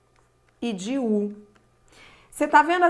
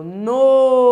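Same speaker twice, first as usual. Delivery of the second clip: "Noite" with a long, loud o fading into i; falling diphthong demo; 3 semitones higher, 9 dB louder than usual. Shown as a demonstration. Teacher giving an example of strong to weak, "Noite" drawn out on a loud o. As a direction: stretch and lean on the o of "Noite". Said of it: "Ele vai do forte para o fraco".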